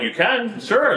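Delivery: mock eager yes; high eager reply. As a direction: chirp it out high and keen. Retold eager offer, pitch high.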